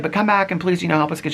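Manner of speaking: high, lightly imitated friendly plea; mildly sweet imitation of a woman. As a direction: plead sweetly, as a retold invitation. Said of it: "she was really sweet".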